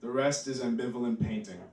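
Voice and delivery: measured spoken-word reading; poem reading. Acted. Reads his poem.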